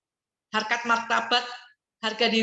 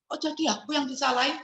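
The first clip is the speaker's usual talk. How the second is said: defensive retort; 4 semitones higher, 4 dB quieter than usual. Shown as a demonstration. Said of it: "misalnya kita gituin".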